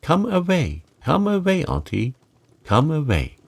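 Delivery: mild mock shout, mostly in pitch; retold shouting.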